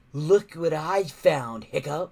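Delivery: slow, smug drawl. Acted. Snotlout gloating at Hiccup in a slow smug drawl. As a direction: drag it out, pleased with yourself. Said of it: "drawled Snot Loud".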